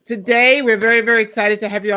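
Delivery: talking around licorice; mouth full. Real, not acted. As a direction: speak with candy in mouth. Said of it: "I have licorice in my mouth".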